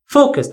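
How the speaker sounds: focus said as FO-cus; stress on first syllable. Shown as a demonstration. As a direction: punch the FO of focus. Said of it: "stress is before the final syllable".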